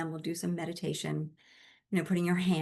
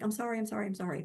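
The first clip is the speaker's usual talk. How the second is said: quick run of repeated sorries; lightly acted, hurried string of apologies; flustered repeated apology; 3 semitones higher, faster than usual. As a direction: imitate someone apologizing over and over. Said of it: "women do more like this".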